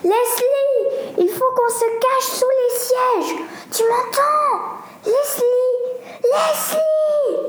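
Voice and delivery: appel très aigu et paniqué; cri paniqué. A narrator's reading. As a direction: appelle son amie, terrifiée. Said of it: "Lenny s'écria". (Lenny cherche Leslie pendant l'attaque, appel aigu paniqué)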